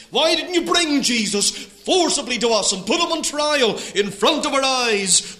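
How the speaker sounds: preacher voicing an insistent challenge; indignant questioning. Pharisees confronting the officers over Jesus, indignant questioning.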